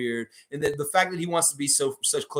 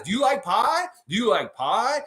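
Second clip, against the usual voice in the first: higher, teasing wrestler taunt; The Rock; 7 semitones higher than usual. Retold or imitated. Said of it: "You know what The Rock would say".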